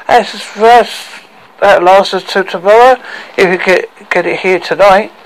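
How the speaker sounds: a touch of tipsy delight; happy. Acted. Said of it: "said Drunky happily".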